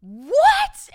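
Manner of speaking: high, loud stunned shriek; shrieked what. Retold or imitated. Friends hearing about the horse, high loud shriek. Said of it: "And they were like".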